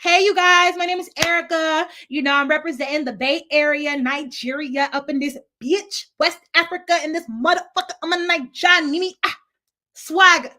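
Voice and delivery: put-on high, loud hype-girl intro; hyped intro. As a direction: pump up the room as you introduce yourself. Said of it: "So I'm like".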